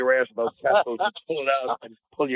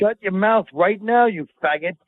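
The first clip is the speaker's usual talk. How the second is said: higher, drawn-out scolding; mock outrage; 7 semitones higher, slower than usual. Real, not acted. Co-host silencing his friend's bolo tie question, mock outrage. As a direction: cut him off with slow, raised-pitch indignation.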